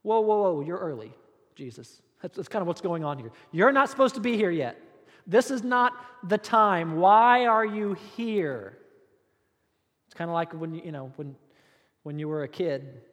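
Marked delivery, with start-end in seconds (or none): 0.0-2.0 startled "whoa", then fading; a demon startled at being caught; caught off guard. Acted. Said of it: "they look up and see". 3.5-8.8 louder, slowing on "Why are you here"; a demon protesting the early visit; indignant protest. Acted. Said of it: "they see the Son of God".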